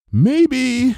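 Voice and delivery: high, hesitant maybe; tentatively, fearing a reaction; a nervous high maybe; apprehensive. Acted. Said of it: "said apprehensively".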